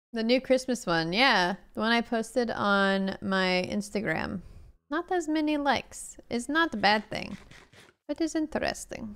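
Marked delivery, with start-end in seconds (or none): 4.9-9.1 English with a put-on Russian accent. Talking about a new Christmas post on Instagram, Russian accent. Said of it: "I'm speaking with Russian accent now".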